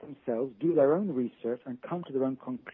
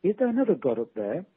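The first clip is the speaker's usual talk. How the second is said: mock shout up to the sky, higher and louder; raised, higher-pitched joke shout; shouting back; 5 semitones higher, 6 dB louder than usual. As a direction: call up loudly, hammed-up for a punchline. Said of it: "and then shouts back".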